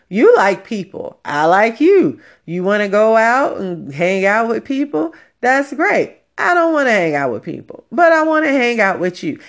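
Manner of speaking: high, loud, insistent quoting; retold emphatic husband. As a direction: play a husband spelling it out to his wife. Retold husband pleading his case.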